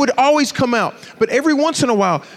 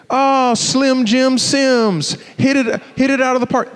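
higher, drawn-out mock cheer; teasing girl; 4 semitones higher, slower than usual. Girl teasing the skinny boy who homered, mock cheer. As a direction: imitate a girl calling out a teasing nickname, lightly. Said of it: "she was laughing as I was going".

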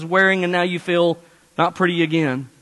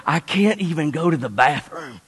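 weary mom; 3 semitones lower, 3 dB quieter than usual. Retold or imitated. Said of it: "she said".

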